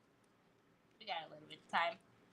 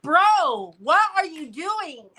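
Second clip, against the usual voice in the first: louder mock outburst at a friend; half-joking loud complaint; retold outburst; 6 semitones higher, 10 dB louder, slower than usual. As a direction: blurt it out, annoyed. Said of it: "and I was like".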